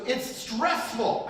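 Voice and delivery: draws out the complaint, high and slow; slow high whine. Retold or imitated. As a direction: imitate the son's stressed whine, slowly. Son complains while driving.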